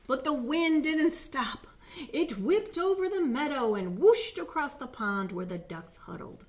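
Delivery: sweeping, sing-out storytime delivery; storybook narration. A narrator's reading. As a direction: read to little children, swelling with the wind.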